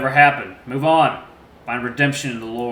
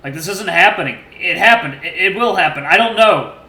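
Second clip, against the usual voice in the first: broken confession; 5 semitones higher, 8 dB louder than usual. A narrator's reading. Numb father confesses before gun.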